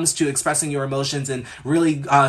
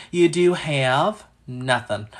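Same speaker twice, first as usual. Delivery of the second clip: mock deadpan; much slower than usual. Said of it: "just kidding".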